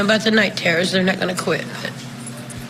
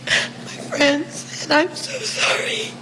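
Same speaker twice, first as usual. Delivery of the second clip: voice breaking; 6 semitones higher, 4 dB quieter, much slower than usual. Real, not acted. Grieving mother thanking supporters.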